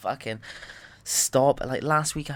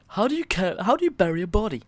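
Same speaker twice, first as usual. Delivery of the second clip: loud; 8 semitones higher, 5 dB louder, faster than usual. Acted. Joke, loud aside.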